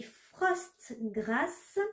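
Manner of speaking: English colour name in a French accent; slow, careful French-accented English. Real, not acted. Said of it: "Désolée pour mon accent anglais".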